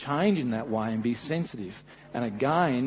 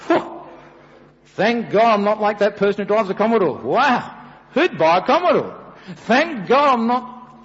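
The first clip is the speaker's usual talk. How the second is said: a hint of a self-righteous Pharisee; lightly mocking proud prayer; mild smug gloating; 5 dB louder than usual. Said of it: "the Pharisee and the tax collector".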